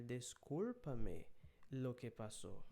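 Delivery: each syllable drawn out for the class; slow dictation. Shown as a demonstration. Teacher to class, slow dictation. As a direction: read it slowly so students can follow. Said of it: "teacher reading slowly".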